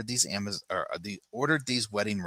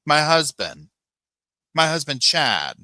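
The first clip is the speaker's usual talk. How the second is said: higher, louder mock indignation; mock Lori indignant; 6 semitones higher, 6 dB louder than usual. Lori snapping at Keith about Chad, mock indignant, higher and louder. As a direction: play her offended and over the top. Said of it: "And Lori says".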